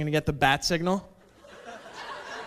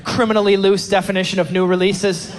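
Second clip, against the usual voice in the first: furious rant; 3 semitones higher, 6 dB louder than usual. Acted. Ranting at Blockbuster.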